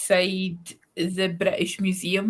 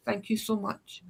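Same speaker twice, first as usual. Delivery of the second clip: 1 softer thanks; 8 dB quieter than usual. Retold or imitated. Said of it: "I was just like".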